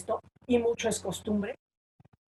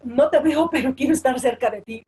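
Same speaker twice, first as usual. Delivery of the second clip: mock intimate plea; 4 semitones higher, 9 dB louder than usual. Mock voice of someone too close.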